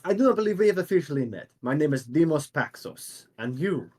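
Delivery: lightly declaimed, formal hero; mildly theatrical courtesy; Demos introducing himself. Acted. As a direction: introduce yourself with a touch of grandeur. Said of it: "and he goes".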